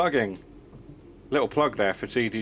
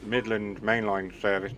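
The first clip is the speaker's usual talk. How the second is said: mock train announcement. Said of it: "should I do it properly?".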